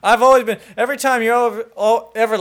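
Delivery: stuttering with excitement; tripping over words, worked up; excited. Real, not acted. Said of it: "You know you stutter when you get excited".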